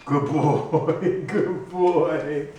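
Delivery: high, loud happy praise with a laugh; praising the dog. Real, not acted. Owner praising his dog for returning, high and delighted. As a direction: cheer the dog for coming back.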